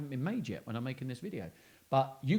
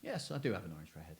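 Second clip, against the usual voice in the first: orange-head man; faster than usual. Retold or imitated. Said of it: "the man said".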